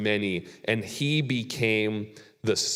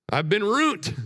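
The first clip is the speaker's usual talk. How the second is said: laughing; 9 semitones higher than usual. Real, not acted. Laughing at his own return to ministry.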